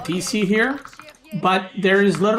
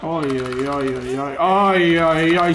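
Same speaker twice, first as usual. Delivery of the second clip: mock French villager shouts; slower than usual. Villagers shouting alarm in-game.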